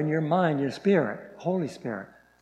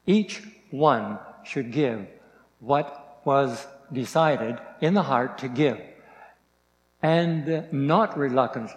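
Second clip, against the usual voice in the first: slow, measured scripture read; deliberate Bible reading. Acted. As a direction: read it out slowly like a lesson. Reads scripture slowly.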